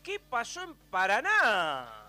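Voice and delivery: loud, drawn-out radio goal prompt; calling out. Real, not acted. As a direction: throw to the reporter with a big stretched cry. Host throws to goal flash.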